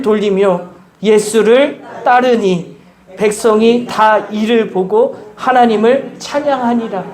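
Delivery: slow, solemn Bible reading; scripture reading. Acted. Pastor reading Luke to the congregation, slow and solemn. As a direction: lay each phrase down slowly and reverently. Reads verse slowly.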